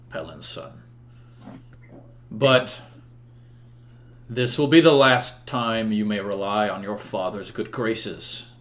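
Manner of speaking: measured, formal royal judgment; solemn king. Acted. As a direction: pronounce a stern but merciful ruling with pauses. Game master voices King Uther giving judgment.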